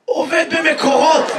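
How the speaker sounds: strained, slow mock croak; imitated hoarseness. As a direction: mimic the hoarse man's answer. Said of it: "למה אתה נשמע ככה".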